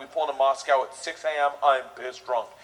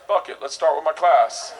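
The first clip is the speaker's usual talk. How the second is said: eager shout; 4 dB louder than usual. Retold or imitated. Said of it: "I'm the guy that's like".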